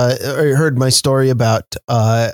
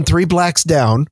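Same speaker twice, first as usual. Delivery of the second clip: put-on Chicago accent; 3 semitones higher, much slower than usual. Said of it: "introduced to the Chicago accent".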